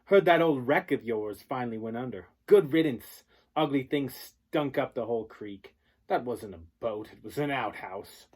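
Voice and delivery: loud sneering jeers, peaking on Good riddance; bully taunt. Acted. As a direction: rub it in like a rich bully. Bully Tyler mocks the boat.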